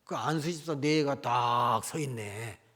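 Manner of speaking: slow, drawn-out startled telling; startled discovery. Retold or imitated. Pastor spotting the deacon's child at the door, slow and startled. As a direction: spell out the shock of who is standing at the door. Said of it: "어?".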